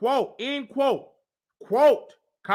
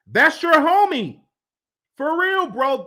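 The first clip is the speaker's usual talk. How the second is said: mock sassy woman's voice; 7 semitones higher, 6 dB louder than usual. Reading the woman's angry texts.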